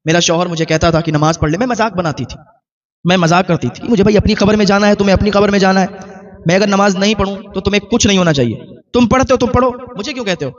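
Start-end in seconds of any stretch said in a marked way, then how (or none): 3.9-10.5 mocking brush-off. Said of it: "इस तरीके से मैं बात कह के टाल दिया करती थी".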